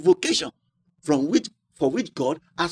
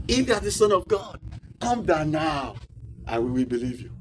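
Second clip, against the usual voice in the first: mocking taunt. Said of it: "See, they mocked him".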